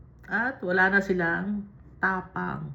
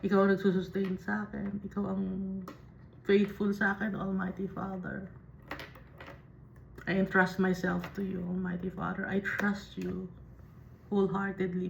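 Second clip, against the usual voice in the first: prayerful; 3 dB quieter than usual. Shown as a demonstration. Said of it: "pag sinasabi natin to".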